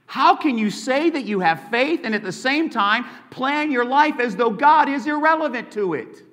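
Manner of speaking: scornful, mocking preacher's jab; heavy sarcasm. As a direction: sneer at the big shots. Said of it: "James is using very heavy sarcasm".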